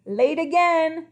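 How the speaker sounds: slow, loud and out of breath; panting. Acted. King running in place pants at the crocodile, winded. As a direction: pant it out mid-exercise. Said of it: "panted the king".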